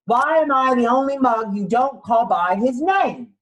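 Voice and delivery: a put-upon koala protesting his name in rhyme; mildly voiced cross little koala; indignant koala. Koala character lines in picture book.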